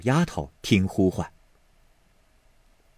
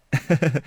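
light laugh; 4 semitones higher than usual. Acted. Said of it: "宝玉道".

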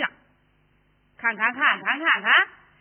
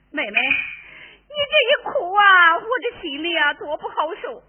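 mock weeping; 2 semitones higher, 4 dB louder than usual. Sister-in-law fakes grief. (假哭着拖长腔)

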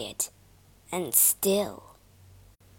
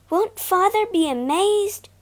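excited; 10 semitones higher, 4 dB louder than usual. Acted. Clara imagines father's joy.

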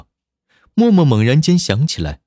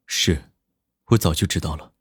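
sincere; 6 semitones lower, 5 dB quieter than usual. A narrator's reading. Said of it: "十分诚恳地说道".

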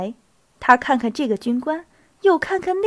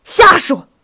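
high, loud exclamation of disbelief; loud, sharp dismissal; disbelieving shout; 6 semitones higher, 10 dB louder than usual. A narrator's reading. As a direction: shout it down at once. Officer rejects the surprising news.

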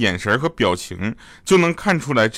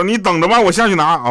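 annoyed retort; 8 semitones higher, 5 dB louder than usual. Retold or imitated.

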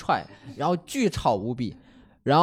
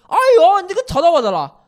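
high, loud imitation of a Shanghainese complaint in a Shanghai accent; 13 semitones higher, 9 dB louder than usual. Neighbour in a Shanghai accent complains to the narrator. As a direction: play a fussy man in a Shanghai accent, whining "哎呦". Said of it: "你这个模仿的口音".

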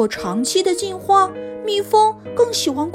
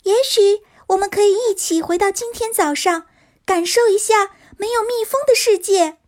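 high, light fairy voice; tiny tinkling fairy voice; 5 semitones higher than usual. Acted. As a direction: sing it out like a tiny sprite. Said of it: "小精灵笑着说".

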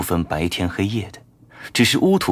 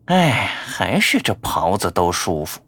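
contented sigh. Acted. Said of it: "自言自语".

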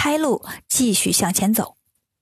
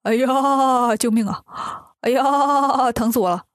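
mock cry for help. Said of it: "抱着腿喊".

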